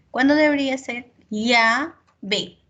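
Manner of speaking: llave with a palatal ll, ʎabe; teacher pronunciation demo. Shown as a demonstration. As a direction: say llave with the ll sound. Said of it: "me estoy refiriendo al sonido".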